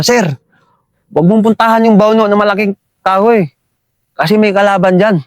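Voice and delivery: half-hearted retold shout. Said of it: "Sinigawan ko siya".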